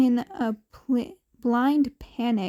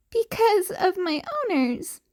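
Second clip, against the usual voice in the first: put-on wheezing kid; 7 semitones higher than usual. A narrator's reading. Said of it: "he wheezed".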